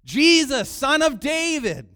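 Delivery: high, full-force yell; desperate cry out. Acted. Blind beggar cries out to Jesus, desperate yell. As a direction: yell across a crowd for him, drawn out. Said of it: "No, he cried out".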